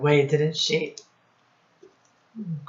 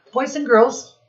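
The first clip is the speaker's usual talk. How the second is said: calling out; 8 semitones higher, 5 dB louder, faster than usual. Real, not acted. Teacher calling the class.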